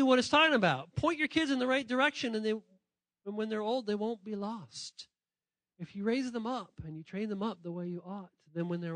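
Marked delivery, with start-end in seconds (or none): 3.9-5.1 slow emphasis. Shown as a demonstration. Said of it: "slow emphatic quote close".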